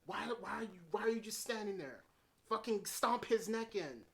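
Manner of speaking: frustrated fan shouting advice at the TV; yelling at the screen. Retold or imitated. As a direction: viewer yelling at a character to finish the killer, exasperated. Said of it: "I was screaming at the screen".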